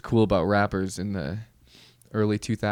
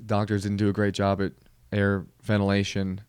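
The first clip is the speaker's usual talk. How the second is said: calling out. Retold or imitated. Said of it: "it's just a cry for".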